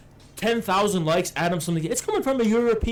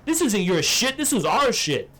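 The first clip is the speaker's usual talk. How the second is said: imitating Hassan ranting. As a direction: tell off a foreign YouTuber, building into an indignant shout. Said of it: "He'd be like, Hey".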